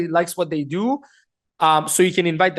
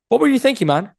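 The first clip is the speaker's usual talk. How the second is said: higher, caring and curious question; tonality of care; 4 semitones higher, 3 dB louder than usual. Shown as a demonstration. Coach modelling care and curiosity for trainees, caring. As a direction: ask open-mindedly, pitched up. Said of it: "It's a tonality of care".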